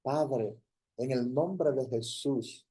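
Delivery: earnest public prayer in short, cadenced phrases; fervent prayer. Real, not acted. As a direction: pray aloud, building emphasis phrase by phrase. Leads an opening prayer.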